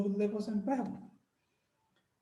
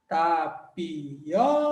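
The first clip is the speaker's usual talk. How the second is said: slow demo word; 3 semitones lower, much slower than usual. Shown as a demonstration. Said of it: "O I aqui tá sozinho na sílaba".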